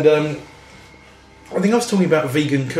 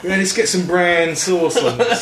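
put-on South London accent; 4 semitones higher than usual. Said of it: "but in a South London accent".

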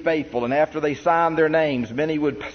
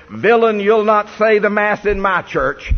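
loud, high, furious cry at the bishop; defiant shout; 6 semitones higher, 7 dB louder than usual. Retold or imitated. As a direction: hurl it at him like an outraged woman. Farm woman defies bishop in church.

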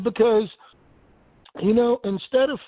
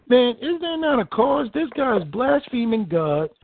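higher, urgent rising question; fervent challenge; 4 semitones higher than usual. Shown as a demonstration. David challenging the soldiers who hang back, fervent and higher. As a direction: throw the question up like a fired-up preacher. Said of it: "So David is saying".

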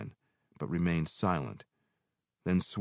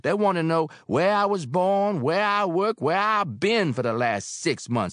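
higher, louder landlady voice; motherly landlady; Mary, older woman; 13 semitones higher, 9 dB louder than usual. Acted. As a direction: speak as kindly Mary. Mary's voice.

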